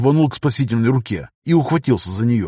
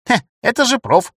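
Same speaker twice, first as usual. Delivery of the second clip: smirking; 11 semitones higher than usual. Acted. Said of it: "усмехнулся енот".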